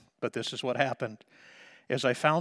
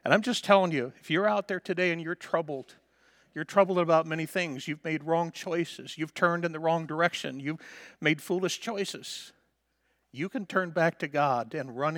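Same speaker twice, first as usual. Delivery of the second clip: earnest appeal; 3 semitones higher than usual. Acted. Preacher appealing to listeners.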